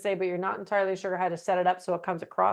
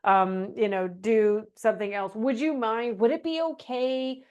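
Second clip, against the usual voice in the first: mock nice plea; 2 semitones higher than usual. Shown as a demonstration. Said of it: "my favorite nice word".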